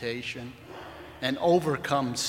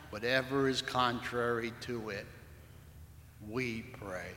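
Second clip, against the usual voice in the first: prayer. Acted. Pastor praying over his congregation during Lent, reverent. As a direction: lead the church in prayer, unhurried.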